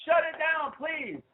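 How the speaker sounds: playful cheer urging shut it down. Real, not acted. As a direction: egg him on like a fan in the stands. Cheering on the shutdown.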